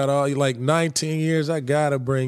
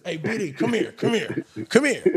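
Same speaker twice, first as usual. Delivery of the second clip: lightly mimicked high, soft beckoning; imitated summons; 5 semitones higher, 3 dB quieter than usual. Teammate imitating a star calling him over, high hushed beckoning. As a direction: call him over softly, pitch climbing on each repeat. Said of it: "You know how he do this".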